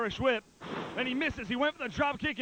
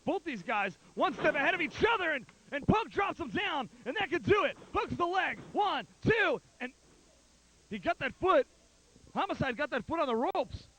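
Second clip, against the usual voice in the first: excited; 4 semitones higher than usual. Real, not acted. Near-fall climax of the match.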